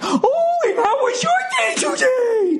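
put-on very high, sing-song up-and-down baby talk; condescending mom voice. Stay-at-home mom talking down to her six-year-old, high sing-song. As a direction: coo at a six-year-old like they're a moron. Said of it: "They do that fucking up and down talking".

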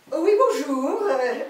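hammed-up French lady accent; comic French accent. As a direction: introduce yourself as a grand Parisian lady. French beauty lady introduces herself.

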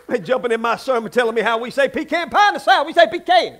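building to a high, loud yell; hammed-up indignant shouting, climbing in pitch; mock outrage. Mock quarrel over pronouncing pecan.

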